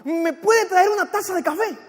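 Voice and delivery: acted eager customer placing an order; a touch of thrilled pleading; excited request. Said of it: "Aquel hombre emocionado le dice".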